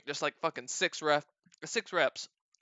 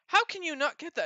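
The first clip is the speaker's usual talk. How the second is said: mock incredulity; 11 semitones higher than usual. Retold disbelief at failed pull.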